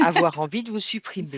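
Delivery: real laugh in the words; laughing reassurance. Real, not acted. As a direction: reassure with a laugh breaking through. Therapist reassures, breaking into laughter.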